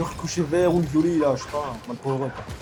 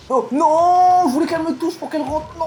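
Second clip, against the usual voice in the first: dépit aigu; 10 semitones higher, 4 dB louder than usual. Real, not acted. Ballon manqué de peu.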